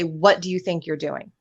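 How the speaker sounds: 抑えた静かな問いかけ; calm, not yelling. Shown as a demonstration. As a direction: ask it quietly and evenly, no yelling. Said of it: "You say it calmly".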